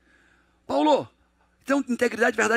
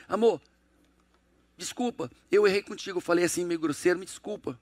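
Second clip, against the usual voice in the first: soft apology to wife; 4 semitones lower, 3 dB quieter than usual. Retold or imitated. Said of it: "quando você chega pra tua esposa e diz assim".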